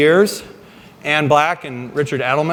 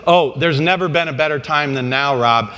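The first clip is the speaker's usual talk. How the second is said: fight promoter. Retold or imitated. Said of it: "in promoter voice".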